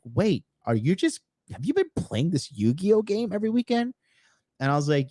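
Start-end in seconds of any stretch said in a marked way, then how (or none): 0.0-3.9 high put-on girly voice, disbelieving; girlfriend voice. Girlfriend discovering his Yu-Gi-Oh secret, high mocking voice. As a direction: voice her like she just caught him. Girlfriend quoted in retold argument.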